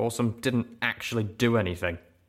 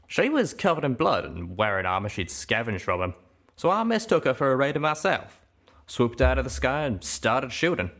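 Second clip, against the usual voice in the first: Calamity's voice, scoffing; 4 semitones higher than usual. Acted. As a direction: brush it off in the cowpoke voice. Calamity recounting.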